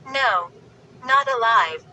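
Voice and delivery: gleeful. Acted. Sister teasing Chris about the dummy, gleeful. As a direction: gloat over the joke. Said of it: "Lindy called gleefully".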